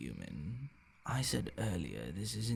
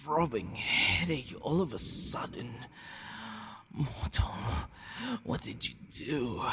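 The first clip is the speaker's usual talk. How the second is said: alarmed confusion; 2 semitones higher than usual. Acted. Vampire confronting the human about poisoned blood, alarmed. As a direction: panic rising as the body betrays you. Vampire feels strange after drinking.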